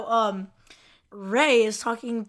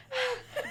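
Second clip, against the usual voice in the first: imitated winded huff, high and soft; out-of-breath huffing; 13 semitones higher, 8 dB quieter than usual. Imitating Monk walking in with chest out, huffing. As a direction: puff as if winded from running. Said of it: "he's, like, out of breath".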